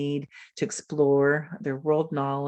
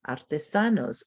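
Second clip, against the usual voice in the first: Spanish word. Shown as a demonstration. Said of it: "do you know this word in your language".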